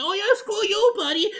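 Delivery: high and loud, a hammed-up cheer; mocking fan voice. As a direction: squeal it like a gleeful fan egging him on. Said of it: "And they're like".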